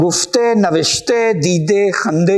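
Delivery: گفتے، نوشتے، دیدے، خندے each slow, ending in a clear e sound; drawn-out word endings in e; modern Persian ending. Shown as a demonstration. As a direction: end گفتے and نوشتے on e, not a. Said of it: "جدید فارسی میں یہ ہائے غیر ملفوظ".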